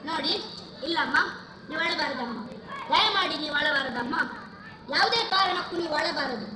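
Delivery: gentle consoling. Acted. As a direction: soothe a weeping mother. Son consoles his weeping mother. (ತಾಯಿಯನ್ನು ಸಂತೈಸುವ ಧ್ವನಿ)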